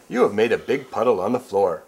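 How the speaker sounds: words through laughter; laughing. Acted. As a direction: crack up mid-line. Laughing while reading.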